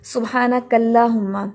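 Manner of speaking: सुब्हानकल्लाहुम्मा with a light, thin L; wrong thin lam. Shown as a demonstration. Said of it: "हम ये नहीं पढ़ेंगे".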